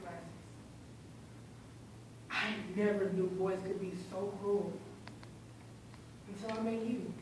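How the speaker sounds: soft, measured reading of a painful letter; dramatic monologue. Acted. A victim addresses their old bully in a letter, hushed dramatic monologue. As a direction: address the bully quietly, with long pauses.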